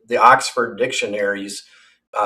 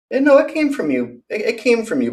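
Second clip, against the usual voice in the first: shrieking accusation; 11 semitones higher than usual. Real, not acted. Blaming Boss Baby, voice jumping way up. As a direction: pitch leaps far higher.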